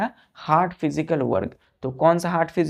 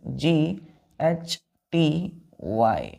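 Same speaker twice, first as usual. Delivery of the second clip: slow spelling out; much slower than usual. Shown as a demonstration. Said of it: "ध्यान दीजिए".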